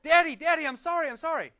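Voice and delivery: put-on high, loud child's plea; mock sobbing. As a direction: wail to a parent like a sobbing child, imitated.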